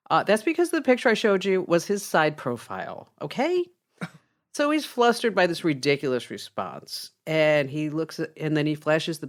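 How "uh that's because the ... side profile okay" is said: raised pitch, pointed "okay?" at the end; lightly acted policeman setting a trainee straight; mildly exasperated explaining. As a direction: spell it out with strained patience.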